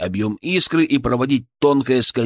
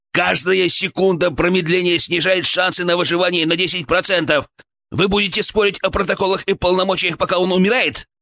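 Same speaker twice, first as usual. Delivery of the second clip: breaking into shout; 7 semitones higher than usual. A narrator's reading. Healer arguing with paramedics over a dying man, high desperate cry. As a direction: rail at them high and desperate. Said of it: "мой голос сорвался на крик".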